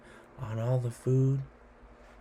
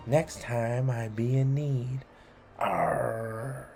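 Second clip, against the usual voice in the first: pirate boast. Acted. Child claiming the ship, a light pirate swagger. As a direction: boast like a pirate who's found treasure.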